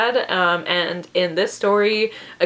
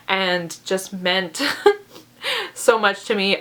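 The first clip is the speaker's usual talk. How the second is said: choked up. Real, not acted. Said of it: "I get so emotional".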